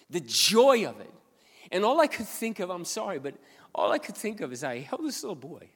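fighting back tears while telling it; emotional catch in the voice; choked up. Real, not acted. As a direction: close to tears, high and loud. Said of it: "And I started to cry".

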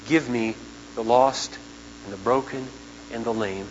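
sincere, hushed appeal; earnest plea. Real, not acted. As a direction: plead quietly for the lost. Preacher pleads for the lost.

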